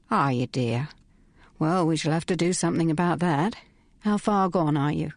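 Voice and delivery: a lightly voiced motherly woman, soothing; sympathetic. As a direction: coo it gently like a kindly matron. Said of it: "The voice became sympathetic".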